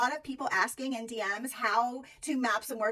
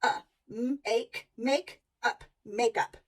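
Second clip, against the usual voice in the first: sounding out; much slower than usual. Shown as a demonstration. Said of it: "but this is closed in".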